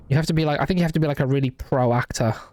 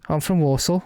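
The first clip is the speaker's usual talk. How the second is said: lightly put-on Black Country accent; attempted Walsall accent; 3 semitones higher than usual. Streamer imitating a singer's talk, attempted Walsall accent. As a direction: have a rough go at a Walsall accent. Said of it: "I can't really do the accent".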